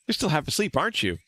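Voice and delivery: put-on bright young companion voice; playful friendly girl; cheerful girl voice. Voicing Maribel character.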